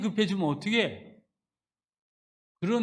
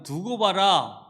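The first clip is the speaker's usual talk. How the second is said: declaring; 6 dB louder, slower than usual. Acted. Quoting the Lord's words.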